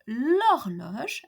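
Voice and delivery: "l'horloge" said as one word with the vowel dropped; elided l'horloge. Shown as a demonstration. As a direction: glide "l'horloge" together, no la. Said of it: "and not la horloge".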